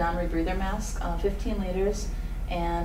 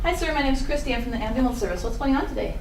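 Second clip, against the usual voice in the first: higher, louder greeting to the patient; 5 semitones higher, 3 dB louder than usual. Pretend. EMT student introduces herself to the seated patient, higher and louder. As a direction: introduce yourself to the patient, pitched up and projected.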